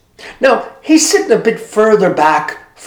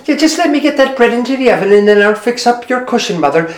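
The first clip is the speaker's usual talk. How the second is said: Maureen again; 6 semitones higher than usual. Acted. Maureen repeats her line.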